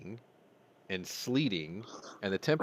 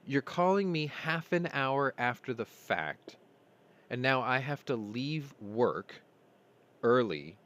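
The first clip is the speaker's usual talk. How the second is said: retold anger; 4 semitones higher, slower than usual. Ranting at mom about late call.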